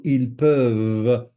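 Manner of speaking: "peuvent" loud, its final v held; emphasized word ending. Shown as a demonstration. Teacher showing how crucial French endings are, emphasized ending. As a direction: hit the closing v of "peuvent". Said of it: "Notice I'm emphasizing the ends".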